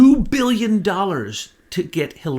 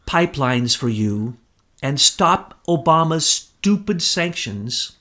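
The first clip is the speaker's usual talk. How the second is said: slow, deliberate attempt at a New York accent; lightly put-on New York accent, measured and drawn out; deal-making in a mild New York accent, word by word; Trump, New York accent; slower than usual. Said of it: "New York accent".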